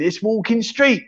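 slow, with a lean on "walk"; pun reveal. Shown as a demonstration. Streamer landing the pun for chat, slowly. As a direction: spell out "walk in street" slowly. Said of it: "revealing the pun".

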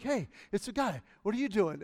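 lightly voiced happy dog; a hint of a friendly, delighted dog. Happy dogs spot the guy with treats, lightly acted delight. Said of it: "they're just really happy".

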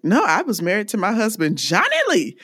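lightly voiced old lady, rising high on Johnny Lee; imitating grandma. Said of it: "she's like".

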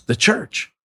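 incredulous caller. Retold or imitated. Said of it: "And he goes".

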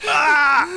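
loud high yelp of pain; pained yell. Acted. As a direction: cry out as you are hit. Grazed by creature.

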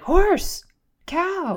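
high excited call of each animal; child's high-pitched naming shout; kids calling out. Retold or imitated. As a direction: point it out like a thrilled toddler. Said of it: "they'd be like".

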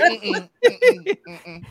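high, laughing "mm-mm"; imitated frightened refusal, played for laughs; mock refusing hum. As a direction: hum a quick high no, fading off. Imitating a scared character refusing.

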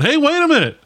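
high-pitched animated football-announcer outburst; wild John Madden. Retold or imitated. Imitating the coach in his wild days, animated outburst. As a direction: burst out high, like an excited coach. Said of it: "always throwing his arms up and going".

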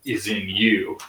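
hint of a ponderous narrator, dropping in pitch; mock narration. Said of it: "We get Dean's narration".

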